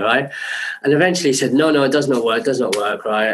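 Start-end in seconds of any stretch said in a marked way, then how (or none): 1.5-3.1 lightly imitated North African accent; hint of a North African accent, dismissive. Designer rejecting the flying rig, North African accent. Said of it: "'cause he's now African".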